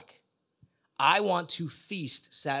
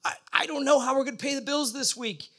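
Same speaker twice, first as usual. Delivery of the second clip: retold desperate prayer; 8 semitones higher than usual. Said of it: "she's crying out to the Lord".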